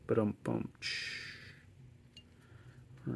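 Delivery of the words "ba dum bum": vocal rimshot. Pretend. Joke punchline, rimshot sound.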